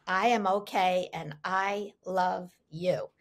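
slow, measured announcement, lightly imitated; mother's loudspeaker announcement. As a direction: spell out the message slowly, like a mother over a loudspeaker. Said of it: "mother's voice came over the loudspeaker".

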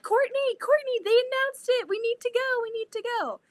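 high, squealing rush of excitement; excited. Retold or imitated. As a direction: burst out to a friend with big news. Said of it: "And I was like".

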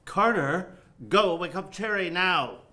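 impatient director calling out; barked order. Acted. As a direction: order the assistant into action, loud and high. Director orders assistant about.

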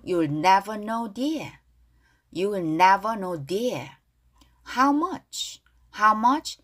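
slow, clearly spaced English lyric lines; pronunciation model reading. Shown as a demonstration. Teacher leading learners in reading lyrics aloud, slow pronunciation model. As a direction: model each phrase slowly for learners to repeat. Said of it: "큰 소리로 발음 따라하겠습니다".

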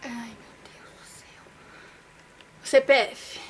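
breathless whisper under her breath; a frightened prayer muttered under the breath; anxious whisper. Real, not acted. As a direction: whisper it, dreading the result. Alone, anxious before seeing the grade.

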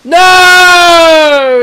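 long, high, loud no; drawn-out loud shout of no; emphatic no. Real, not acted. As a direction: blast out the answer. Emphatic answer to own question.

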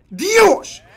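sudden high cry of shock; startled outburst. Real, not acted. Gamer watching a clip, shocked high cry. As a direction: jolt up, caught off guard.

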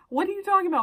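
high, loud incredulous question; retold disbelief. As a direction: act out being stunned by his news. Retelling shock at police news.

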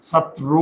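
ছাত্র as "chhat-tro", ending in closed o; pronunciation demo. Shown as a demonstration. Teacher shows the final ro, ছাত্র split as "chhat-tro". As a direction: sound out ছাত্র in two parts, "chhat-tro". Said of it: "আমরা শেষে কি রো উচ্চারণ করি".

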